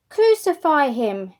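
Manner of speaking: angry crowd shouting at Pilate; shouted demand. Acted. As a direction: hammer each word at the governor. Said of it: "they shouted".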